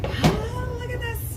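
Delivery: high delighted gasp of wonder; thrilled first look at the loaf; excited. Real, not acted. First sight of the baked loaf.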